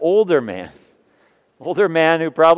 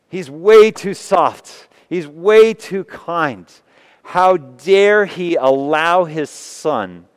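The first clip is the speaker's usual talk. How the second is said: scornful gossip; 3 semitones higher, slower than usual. Acted. Crowd disapproves of father.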